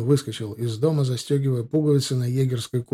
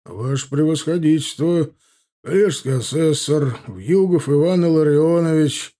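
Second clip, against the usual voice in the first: formal self-introduction, voice raised; respectful; 3 semitones higher, 5 dB louder than usual. A narrator's reading. Host introducing himself to the general, respectful and formal. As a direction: present yourself ceremoniously to a superior. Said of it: "почтительно поклонившись".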